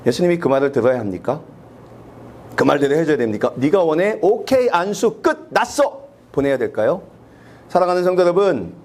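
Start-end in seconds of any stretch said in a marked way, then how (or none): 3.6-6.1 curt dismissal. Pretend. Jesus dismissively complying.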